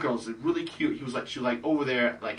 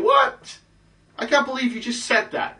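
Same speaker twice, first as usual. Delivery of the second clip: shocked disbelief; 10 semitones higher than usual. Retold or imitated. Girls reacting to a stranger's outrageous joke, mock shock. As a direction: imitate scandalized girls, pitched way up.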